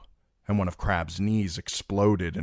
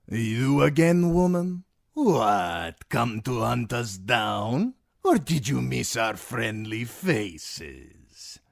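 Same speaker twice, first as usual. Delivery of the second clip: mocking Timion; 6 semitones higher, slower than usual. A narrator's reading.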